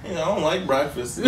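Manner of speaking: low, soft, quick imitation; meek reply. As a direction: mumble it like a reluctant kid. Listener imitating the kid's reply.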